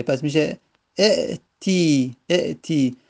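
اعتی said slowly with the helper vowel e at the start; careful demo. Shown as a demonstration. Teacher showing students the new imperative, said slowly. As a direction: stretch اعتی out slowly, then repeat it.

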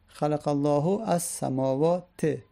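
slow example, samawat ending in kasra; kasra ending sounded. Shown as a demonstration. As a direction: sound the final vowel of samawat slowly. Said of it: "علامت نصبش کسره است".

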